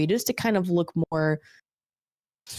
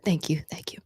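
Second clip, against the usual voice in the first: whispering; 4 dB quieter than usual. Acted. Thanking staff, whispered.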